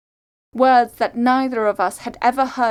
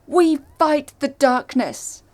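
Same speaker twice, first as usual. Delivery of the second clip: raised, higher-pitched battle cry; defiant shout; 5 semitones higher, 4 dB louder than usual. A narrator's reading. Narrator and Treth defy the evil fangs, shouting. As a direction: shout it as a rallying declaration. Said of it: "We shouted".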